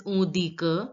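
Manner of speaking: on dit que as "on dee kuh"; silent final t. Shown as a demonstration. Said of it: "It is pronounced as".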